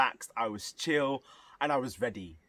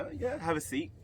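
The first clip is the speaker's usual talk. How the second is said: obliging pianist imitation; 11 semitones higher, 4 dB quieter than usual. Pianist politely offers the seat.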